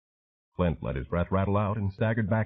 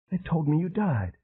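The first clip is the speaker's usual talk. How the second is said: softer, wounded; 8 semitones higher than usual. A narrator's reading. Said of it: "Her voice was softer now".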